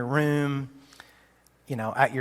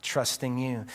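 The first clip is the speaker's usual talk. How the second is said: a hurting believer speaking to God; humble prayer; 3 semitones lower than usual. Shown as a demonstration. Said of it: "humility that says".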